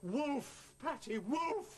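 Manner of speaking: insistent cue. Acted. Puppeteer repeating the missed cue to Patty, insistently.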